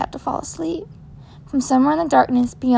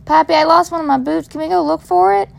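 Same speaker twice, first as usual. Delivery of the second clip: lightly voiced little girl, higher; small child pleading; 4 semitones higher than usual. Injured girl begs grandfather to find her boot, higher child voice. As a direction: ask like a hurt little kid.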